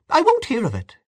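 high-pitched, understated outcry; crying out in protest. A narrator's reading. Miss Ivors refusing an escort home, high mild outcry. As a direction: cry out in refusal, pitched well up. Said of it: "she cried".

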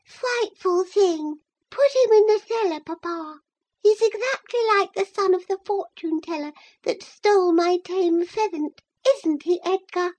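put-on very high, childish lisp; a frightened spoilt girl lisping; lisping little girl. A narrator's reading. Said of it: "Isabella lisping".

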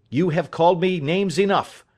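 acted wounded defiance; indignant retort. Accused son answers in quarrel.

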